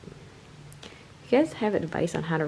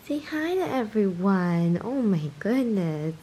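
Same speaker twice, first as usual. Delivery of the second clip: slow cooing pet voice; 2 semitones higher, slower than usual. Real, not acted. Owner coaxing the kitten to greet viewers, slow coo. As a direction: coax the kitten sweetly.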